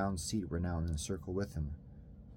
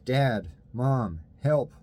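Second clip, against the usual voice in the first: loud, high panicked cries; trapped boy screaming for his parents; screaming for help; 5 semitones higher, 8 dB louder, much slower than usual. Acted. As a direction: shout for anyone to hear.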